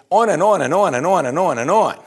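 high, loud, singsong "on and on", each "on" punched; rolling emphatic repetition. Real, not acted. Preacher piling up countless miracles, emphatic singsong. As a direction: roll "on and on" in rising and falling waves. Endless list of miracles, rhythmic repeat.

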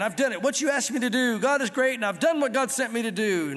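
mock braggart; bragging. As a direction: boast about obedience. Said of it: "So he's bragging".

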